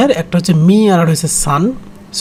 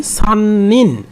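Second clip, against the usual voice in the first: slow spelled-out reading; 2 semitones higher, much slower than usual. Shown as a demonstration. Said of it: "আবার যদি নিন লিখি".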